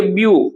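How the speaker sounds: "ब्यू" held long; drawn-out syllable. Shown as a demonstration. Teacher showing primary stress, syllable stretched long. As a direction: lengthen "ब्यू" as the stressed part. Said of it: "लंबा समय खींचा".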